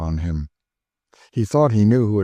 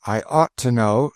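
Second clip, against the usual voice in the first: dry; 4 semitones higher than usual. Acted. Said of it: "said Cassie dryly".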